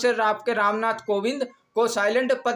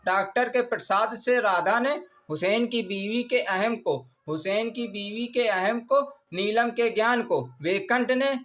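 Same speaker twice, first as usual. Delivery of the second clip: measured recital, phrase by phrase with pauses; mnemonic dictation. Shown as a demonstration. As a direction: recite it deliberately for note-takers. Repeats the mnemonic for learners.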